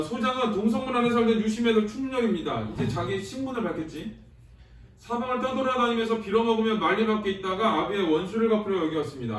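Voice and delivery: steady textbook reading voice, a touch formal; reading the text aloud. Acted. Teacher reads Chungryeol's words to the class, formal reading. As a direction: read the hero's plea like a passage from the book.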